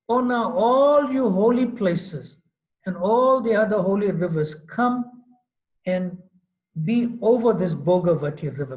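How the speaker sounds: a god calling out his command. Acted. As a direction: call the holy places to come. Krishna summons all the holy rivers.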